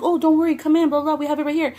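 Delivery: mock the cheerful staff brushing it off; mimicking staff. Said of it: "and they're like".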